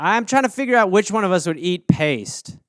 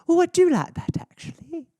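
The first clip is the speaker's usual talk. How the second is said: much higher mock-mom voice, fading away; mom, pleased; 10 semitones higher than usual. Mother liking her hashtag, in a high mock voice. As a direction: play a mother charmed by her own post.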